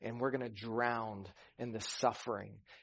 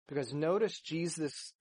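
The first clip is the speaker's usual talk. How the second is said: usual speaking voice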